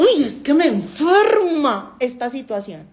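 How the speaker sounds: imitando una queja exagerada y lenta; queja imitada. Retold or imitated. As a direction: remeda a quien se queja de todo. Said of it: "yo escucho a mucha gente". (la doctora imita a la gente que se queja, con queja arrastrada)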